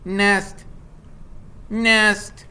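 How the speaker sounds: high chirpy repeats with a hint of a laugh; a gosling giggling its new word; laughing bird. Bright Bill repeats the name, a high chirpy laugh. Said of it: "laughed Bright Bill".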